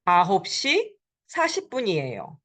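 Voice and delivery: 아홉 시 사십 분이에요 rattled off quickly as a whole; quick teacher demo; fast model answer. Shown as a demonstration. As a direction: say 아홉 시 사십 분이에요 brisk and smooth, falling at the end. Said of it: "It is nine forty".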